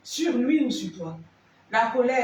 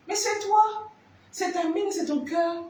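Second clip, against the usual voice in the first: emphatic reveal; 7 semitones higher than usual. Acted. Emphatic answer to own question.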